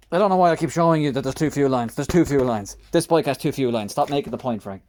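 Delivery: hammed-up annoyed self-scolding; mock exasperation. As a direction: roll your eyes at your own repetition. Mock exasperation at own repeating.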